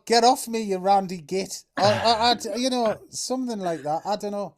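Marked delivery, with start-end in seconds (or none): 0.1-1.6 louder laughing mock rebuff. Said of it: "Or, uh, or, or".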